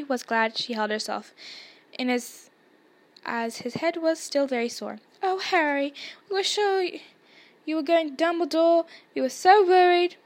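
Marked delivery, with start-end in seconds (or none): 5.2-10.2 high, anxious outpouring; relieved but worried rush of feeling; worried gushing. A narrator's reading. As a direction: fret aloud, pitched high and rising in volume. Hermione frets over injured Harry.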